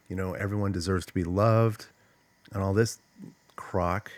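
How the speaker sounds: mildly mocking therapist talk, understated scorn; disdainful. Speaker scorning feel-good advice from therapists, disdainful. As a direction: quote it with a touch of disdain. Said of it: "You can hear the disdain in my voice".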